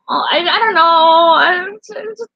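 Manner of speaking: high, trembling I-don't-know; fighting back tears; near tears. Real, not acted. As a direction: voice nearly breaking. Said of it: "almost made me cry".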